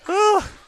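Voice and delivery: winded sigh. Real, not acted. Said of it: "catch my breath".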